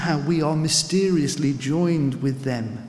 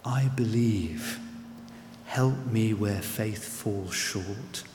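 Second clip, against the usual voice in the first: quiet plea; 4 semitones lower, 6 dB quieter, slower than usual. Retold or imitated. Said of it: "the boy cries out".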